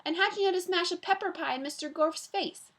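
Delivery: put-on high, puzzled child's question; lightly voiced baffled child; borrowed boy's voice. A narrator's reading. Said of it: "although she sounded like Paul".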